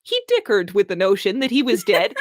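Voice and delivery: laughing mid-sentence while reading; giggling reading; reading through laughter. Real, not acted. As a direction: try to keep reading but crack up. Reading, cracking up.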